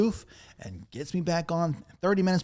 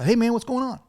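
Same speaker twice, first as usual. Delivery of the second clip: high and louder casual hello; chummy call-out, pitched up and loud; Justin's greeting; 9 semitones higher, 6 dB louder, faster than usual. Retold or imitated. Friend calling about the downed station, high loud greeting. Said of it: "And he goes".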